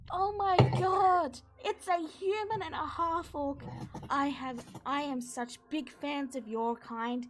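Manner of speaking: high, loud starstruck gush; fanboy gushing over heroes; overexcited centaur blurting praise. Acted. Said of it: "then he goes".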